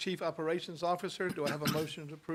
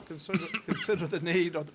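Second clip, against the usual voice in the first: laughing; 4 dB louder than usual. Real, not acted. Stumbles and laughs at wording.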